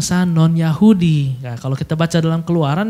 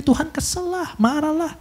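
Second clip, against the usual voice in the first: emphatic; 9 semitones higher, 4 dB quieter than usual. Real, not acted. Preacher stressing God's anger.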